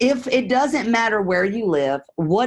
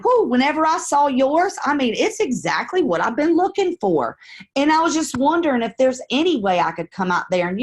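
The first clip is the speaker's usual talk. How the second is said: easy, casual neighborly opener; friendly caller demo; 2 semitones higher than usual. Shown as a demonstration. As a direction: chat like you just drove past his house. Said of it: "I'm gonna say something like this".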